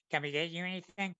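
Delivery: a light attempt at an American accent; lightly imitated American staffer's accent. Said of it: "It's my attempt at an American accent".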